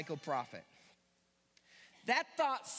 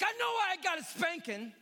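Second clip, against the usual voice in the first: higher, sassy back talk; full sass; 6 semitones higher than usual. Retold or imitated. Jonah back-talking God with light sass. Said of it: "He also said it with full sass".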